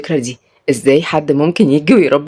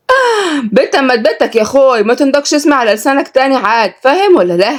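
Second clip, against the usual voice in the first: put-on higher, fierce Upper-Egyptian girl snapping at him; fierce warning; 8 semitones higher than usual. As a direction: warn him off sharply. Salma threatening the son.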